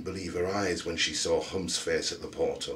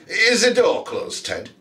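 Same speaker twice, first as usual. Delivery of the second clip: woman's voice; 13 semitones higher, 6 dB louder than usual. A narrator's reading. Woman asks companion.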